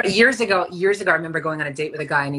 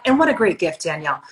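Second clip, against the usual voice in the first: light QVC pitch. Pretend. Friend teasing Danielle with a half-joking QVC pitch. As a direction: lightly sell it like a home shopping host. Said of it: "trying to do Q V C right now".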